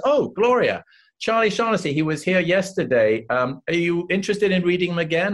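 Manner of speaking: high, eager imitation of the producer; mock surprised pitch. Producer pretending to bump into Gloria, eager. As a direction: feign a chance meeting, sell it.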